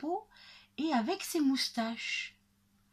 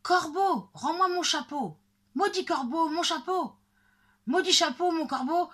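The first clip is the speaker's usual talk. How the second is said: high, loud furious outburst; exploding with anger; 7 semitones higher, 6 dB louder than usual. A narrator's reading. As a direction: rage at the crow, sputtering. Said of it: "le bûcheron éclate". (éclat de colère, voix aiguë et forte)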